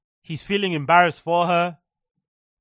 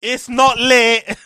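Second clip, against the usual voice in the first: loud, slow, higher mock wail; mocking her reaction; 5 semitones higher, 8 dB louder, much slower than usual. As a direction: ham up a dramatic online meltdown. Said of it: "Straight away got fired and like".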